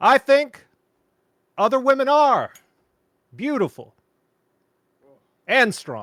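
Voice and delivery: very high, very loud oratory with wide pitch swings. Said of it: "now we're going into speech, Obama".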